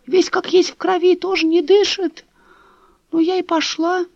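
put-on high, quavering old woman lamenting; old neighbour tells Dasha of the bodies, high and mournful; old woman's voice. A narrator's reading.

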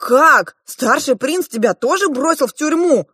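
high, loud shocked question; astonished cry. A narrator's reading. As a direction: cry out in disbelief. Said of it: "вскричали ребята". (изумлённый громкий вскрик)

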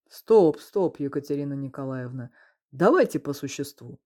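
wincing stop. Acted. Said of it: "поморщился Мельников".

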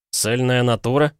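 высокий удивлённый вопрос с подъёмом на «натура»; переспросить с возмущением, повысив голос; возмущённое восклицание. A narrator's reading. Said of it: "вскричал Пол". (возмущённо вскричать)

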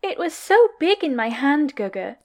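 a lightly pouty, wicked cute tease; sweet pout hiding mischief; cutest, poutiest, evil voice. Acted. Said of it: "in the cutest, poutiest, most evil voice".

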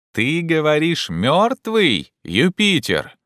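high, excited call; agitated question. A narrator's reading. Legrand questions Jupiter about dead branch, agitated. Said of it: "прерывающимся от волнения голосом".

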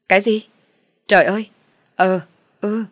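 sudden loud alarmed cry; shocked. Acted. Father hearing bad news on the phone, loud shocked cry. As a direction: blurt it out in shock.

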